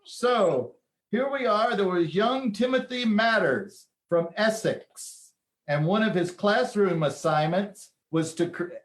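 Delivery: shaky attempt at an English accent. Host introducing young Timothy's story, attempted English accent. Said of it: "gonna do my English accent".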